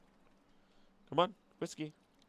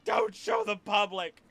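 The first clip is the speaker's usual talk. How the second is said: higher, louder, slowed warning call; alarmed call; 10 semitones higher, 5 dB louder, slower than usual. Real, not acted. Streamer calls out as the cat shows its rear, loud and alarmed. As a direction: cry out to stop the cat in time. Cat showing its butt on camera.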